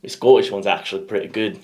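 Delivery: put-on Scottish accent; lightly imitated Scottish lilt. Host showing off partner's accent to friend, Scottish accent. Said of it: "You should have a Scottish one down now".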